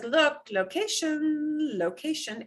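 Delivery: slowed, emphatic look, then location. Shown as a demonstration. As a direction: draw out look like a red flag. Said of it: "It says".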